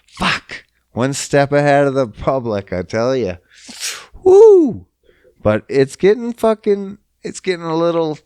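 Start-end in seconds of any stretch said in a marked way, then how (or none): 4.2-4.9 high, loud sarcastic woo; mock cheer. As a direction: whoop it up sarcastically.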